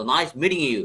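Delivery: "meeting" with the t softened to a quick d; American flapped t. Shown as a demonstration. Teacher shows American usage, "meeting" with a d-like t. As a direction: say "meeting" like "meeding". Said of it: "টিটাকে ডি এর মতো".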